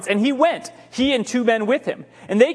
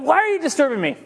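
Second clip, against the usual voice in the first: higher, fuller take of the line; voiced Samuel; 5 semitones higher, faster than usual. Samuel snapping at Saul, pitched higher. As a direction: say it as the annoyed prophet. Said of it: "He said".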